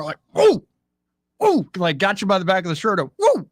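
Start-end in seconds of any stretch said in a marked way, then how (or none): 0.3-1.7 high-pitched yelps mimicking a hammer blow in a fight; mock fighting yell. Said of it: "come down like a hammer". 3.2-3.5 high-pitched yelps mimicking a hammer blow in a fight; mock fighting yell. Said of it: "come down like a hammer".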